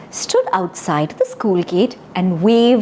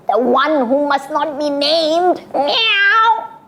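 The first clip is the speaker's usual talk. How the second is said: scared cat; 3 semitones higher, slower than usual. Shown as a demonstration. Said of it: "imagine that you're really scared".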